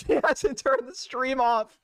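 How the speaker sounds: slow, laughing through the words; cracking up at the same fact; laughing repeat. Real, not acted.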